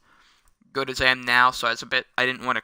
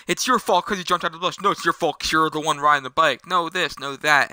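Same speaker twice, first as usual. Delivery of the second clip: higher-pitched back-and-forth squabble; mock bickering; 3 semitones higher than usual. Storyteller as two boys blaming each other, mock bickering. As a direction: toss the blame back and forth, lightly acted.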